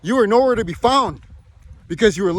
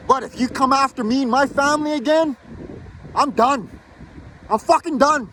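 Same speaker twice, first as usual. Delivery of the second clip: real anger; 5 semitones higher than usual. Real, not acted. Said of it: "I'm so angry I can't even frickin' talk".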